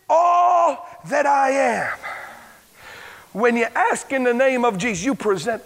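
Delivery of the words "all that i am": slow, loud preaching cry; stretched shouted climax; shouted scripture. Real, not acted. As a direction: belt the verse out.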